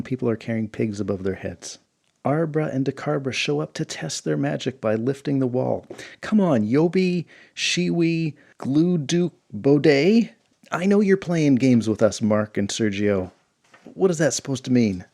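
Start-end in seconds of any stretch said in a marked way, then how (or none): 6.2-13.3 high, loud pleading shout; exasperated wizard calling out. Acted. Wizards calling on the gods for help, shouted plea. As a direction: cry up to the sky at the meddling gods.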